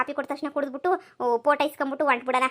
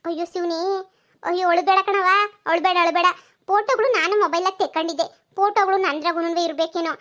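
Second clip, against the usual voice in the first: higher, louder welcoming village neighbour; neighbour woman; 4 semitones higher, 4 dB louder than usual. Acted. Paddu welcomes the moneylender's wife and daughter, higher and louder. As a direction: greet the visitors with surprised delight.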